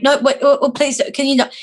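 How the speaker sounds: flustered pleading. Retold or imitated. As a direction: stammer out a polite plea to stop. Retells protest while being grabbed.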